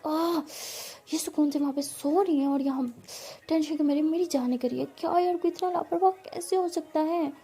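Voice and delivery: fuming about a careless friend; frustrated. Acted. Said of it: "परी को बहुत गुस्सा आता है". (झुंझलाई हुई गुस्से वाली आवाज़)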